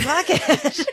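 lightly mocked devil-may-care toss-off; careless shrug. The tipsy Brit not caring, tossed off lightly. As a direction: throw it away like nothing matters.

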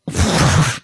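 long breathy blown-out sigh; heavy sigh. Retold or imitated. Patient recalling being hopeless in bed, a heavy sigh. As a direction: let the air blow out wearily. Describing herself sick and helpless.

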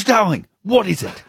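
high-pitched imitation of an old lady. Doris answering her helpful neighbour, old-lady voice. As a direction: put on an elderly woman's high, questioning voice. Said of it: "And she goes".

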